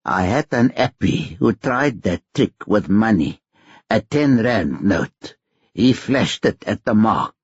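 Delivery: lightly voiced old pickpocket mentor; a hint of a seasoned crook teaching his apprentice; understated old mentor explaining the con; Uncle Solly. Uncle Solly coaching the trick.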